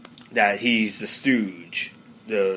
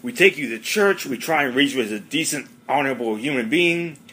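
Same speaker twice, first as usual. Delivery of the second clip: higher, louder mock lecture; Red scolding Eric, hammed-up lecture; lightly voiced scolding dad; 4 semitones higher, 3 dB louder than usual. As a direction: ham up a fed-up father's rant.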